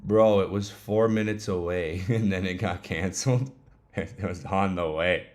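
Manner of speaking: half-laughing complaint; laughing disbelief. Real, not acted. Griping to viewers about a canceled food order, laughing in disbelief. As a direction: talk through small incredulous laughs.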